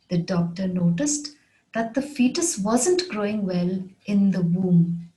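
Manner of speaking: measured, with a pause after "noticed"; careful repeat, phrase by phrase; phrased model repeat. Shown as a demonstration. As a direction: break it into careful phrases for learners. Example repeated in phrases for learners.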